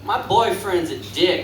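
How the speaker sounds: high put-on voice of a complaining woman; mom voice. Comic mimicking a mom griping about her boyfriend, high and squeaky.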